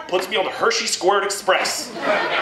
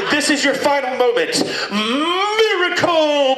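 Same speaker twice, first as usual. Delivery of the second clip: a hammed-up Shatner with a slow, dragged-out last word; Shatner impression; 4 semitones higher, slower than usual. Space captain on the intercom to an enemy ship, hammed-up Shatner. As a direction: play a starship captain milking the drama. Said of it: "I come on the intercom like Shatner".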